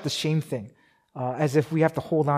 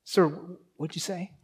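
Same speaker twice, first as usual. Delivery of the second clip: soldier straining to hear; 7 dB quieter than usual. Retold or imitated. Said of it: "He says".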